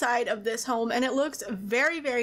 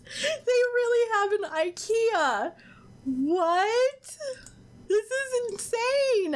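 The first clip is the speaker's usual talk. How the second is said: much higher, slow, near-tearful disbelief; excited squeal; 10 semitones higher, much slower than usual. Real, not acted. Finding an ikea in the game.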